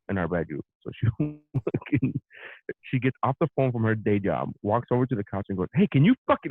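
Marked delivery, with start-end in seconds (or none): 5.8-6.5 imitating an annoyed demand, raised pitch; mock an irritated partner, voice lifted; retold angry demand; mad. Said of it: "like, she's mad".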